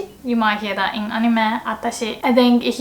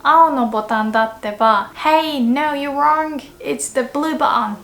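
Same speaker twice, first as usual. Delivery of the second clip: correcting insistently; 3 dB louder than usual. Shown as a demonstration. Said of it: "then I would say".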